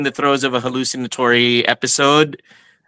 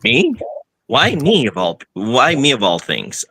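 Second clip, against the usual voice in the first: shocked. Acted. Character shocked being targeted.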